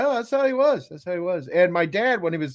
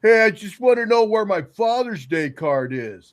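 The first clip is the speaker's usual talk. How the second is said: louder, higher retold demand; acted-out pushy dad; imitating demanding dad; 5 semitones higher, 5 dB louder than usual. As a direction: call up and demand what is owed. Voices dad demanding his card.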